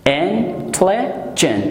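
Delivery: Intelligent drawn out very slowly, in-tel-li-gent; slow syllable demo. Shown as a demonstration. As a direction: stretch Intelligent to show each syllable. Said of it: "It has three syllables". («Intelligent» بسیار آهسته و هجا به هجا)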